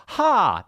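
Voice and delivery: sharp high puff of air; mock airy gasp. Imitating what comes out in Arizona, a sharp airy burst. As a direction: spit out a burst of air like a hiss.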